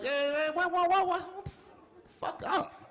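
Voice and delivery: high, mock-alarmed dad cutting her off; startled dad. Dad cutting off his daughter, high and alarmed. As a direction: yelp it up high like the list is too much.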